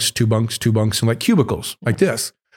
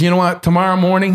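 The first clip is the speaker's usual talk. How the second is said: put-on Italian accent; 8 semitones higher than usual. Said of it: "he's got an Italian accent".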